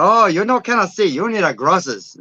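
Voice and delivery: mock Asian accent. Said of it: "I do my Asian accent".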